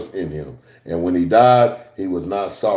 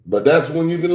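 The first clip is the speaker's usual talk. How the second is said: ordinary talk, nothing marked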